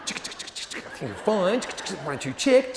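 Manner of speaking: slow, mock-sweet sarcasm with a laugh; a hammed-up passive-aggressive reply; sarcastic reply. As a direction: drip fake politeness, then laugh on send. Sarcastic reply email read out.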